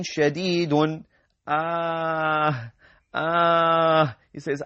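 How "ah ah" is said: pained groan. Acted. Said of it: "he's wailing out of pain".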